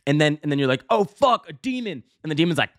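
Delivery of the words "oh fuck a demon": high, startled yelp at a demon; playacting sudden panic in a dream; mock fright. Retold dream, spotting a demon.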